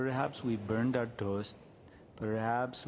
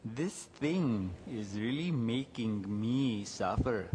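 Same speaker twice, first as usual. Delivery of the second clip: slow noticing; 2 semitones lower, slower than usual. Shown as a demonstration. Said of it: "the first thing to do is to notice and say".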